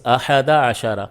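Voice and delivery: احد عشرہ said slowly, each word drawn out; slow Arabic demo. Shown as a demonstration. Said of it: "one اور دس بولتے ہیں". (احد عشرہ آہستہ آہستہ)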